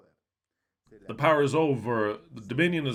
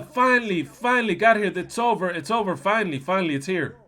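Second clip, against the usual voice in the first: loud high football chant yell; fans' yell; 5 semitones higher, 4 dB louder than usual. Retold or imitated. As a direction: yell it like fans after winning a cup. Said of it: "Like the Argentinian selection yell".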